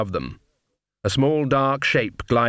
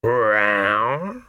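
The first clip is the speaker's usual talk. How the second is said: drawn-out catlike "rowr"; tomcat yowl. A narrator's reading. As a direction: growl it slowly like a big cat. Cat-man menaces the coachman.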